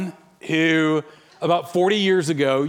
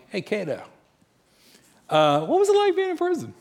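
mock-innocent dinner question; casual prying; 8 semitones higher than usual. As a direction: ask it delicately, acted out for a story. Nosy question to dinner companion.

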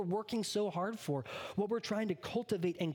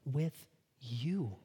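slow gentle promise; Jesus tenderly speaking to you; 2 semitones lower, much slower than usual. Acted. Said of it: "he's looking at you and saying".

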